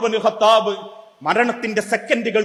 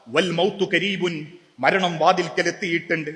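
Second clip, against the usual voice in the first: tearful; 4 semitones lower, 5 dB quieter than usual. Retold or imitated. Dying Abu Hurairah telling companions, mildly tearful. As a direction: let death's nearness weigh the words down. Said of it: "കണ്ണുനീരോടെ പറഞ്ഞു".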